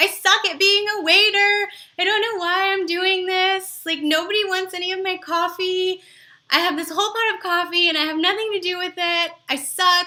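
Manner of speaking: play-acted high, whiny, tearful sobbing. Acting out a waiter whose coffee was refused: mock crying waiter. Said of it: "turn around and start crying and say".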